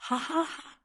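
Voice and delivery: high, read-out mock laugh; light, spelled-out laugh of a jeering crowd. A narrator's reading. Onlooker jeers at the kissing pair, mock laugh. Onlookers mocking a public kiss.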